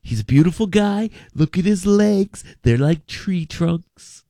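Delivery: lightly voiced rally speaker, slowing on the legs; Donald Trump impression. Host imitating the president praising the quarterback. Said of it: "Donald Trump was like".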